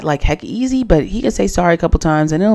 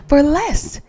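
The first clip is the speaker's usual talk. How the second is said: breathless whispered jab, pitched up; whispered aside; 9 semitones higher than usual. Real, not acted. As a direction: drop to a catty whisper for the punchline. Snide aside about Amaya.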